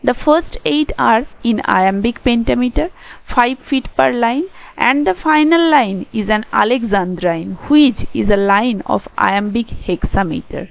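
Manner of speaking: reading notes aloud very slowly, word by word; slow, careful read-aloud of lecture notes; slow dictation reading. Shown as a demonstration. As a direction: dictate it slowly so students can write it down. Teacher reads English notes aloud.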